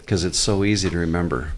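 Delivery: dry, understated sarcasm; sarcastic. Real, not acted. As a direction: say it as if you mean the opposite. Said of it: "I say that pretty sarcastically".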